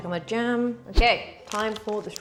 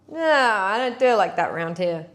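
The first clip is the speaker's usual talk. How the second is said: put-on terrible cowboy accent; 3 dB louder than usual. Baker jokingly rejecting the book's method, terrible mock cowboy accent. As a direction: do a bad mock Western accent. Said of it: "That was a terrible accent".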